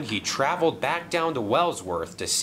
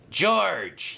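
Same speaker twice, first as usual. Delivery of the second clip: higher-pitched summoning call; 7 semitones higher than usual. A narrator's reading. Sailor John summoning George the steamroller, calling. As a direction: call the name to summon a helper. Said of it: "he called".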